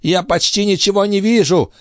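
put-on high, strained old man's voice; old master's voice. A narrator's reading. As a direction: play the frail, urgent old alchemist. Old alchemist Althotas speaking.

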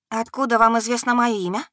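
puzzled question. Acted. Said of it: "спросила непонимающе".

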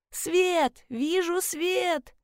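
high, slow, drawn-out calls; relieved shout upward; excited cry from the pit. Acted. Trapped woman sees the flashlight above, excited calling. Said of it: "донеслось из ямы".

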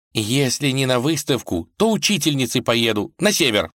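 usual speaking voice

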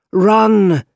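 high, loud urgent shout. A narrator's reading. Hero warns MJ of danger, urgent shout. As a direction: yell it high and long. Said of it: "he shouted to M J".

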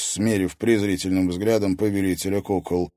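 ordinary delivery

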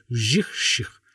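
imitated swishing rasp of a whetted blade; knife-sharpening noise. A narrator's reading. Narrator imitates the endless knife sharpening, swishing scrape. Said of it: "режущие слух звуки".

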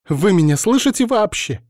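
high, loud exasperated shout; crying out. A narrator's reading. Alina ignored by the men, loud high outcry. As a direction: shout at them to be heard. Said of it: "вскричала Алина".

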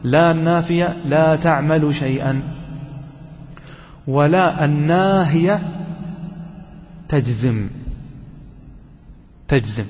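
slow, deliberate rule for memorizing; قاعدة تُقال ببطء للحفظ; rule spelled out slowly. Shown as a demonstration. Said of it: "احفظ هذه القاعدة جيدا".

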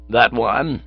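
a hint of small-boy voice; definite child. A narrator's reading. Child pointing to Cyril, lightly voiced and definite. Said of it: "He became more definite".

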